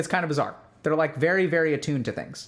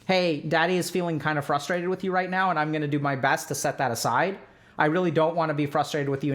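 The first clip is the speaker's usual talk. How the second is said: gentle parent; 2 semitones lower than usual. Shown as a demonstration. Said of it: "And you can say".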